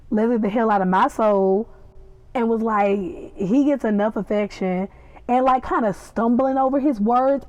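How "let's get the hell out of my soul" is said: imitated Southern country accent; lightly put-on country twang. Repeating Louis's country line, Southern accent. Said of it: "Now you just country".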